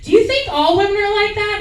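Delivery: lightly sing-song, innocent; asking boyfriend casually while fishing for answers; faux-casual fishing. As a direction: pretend it's no big deal. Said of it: "I'll walk into the room".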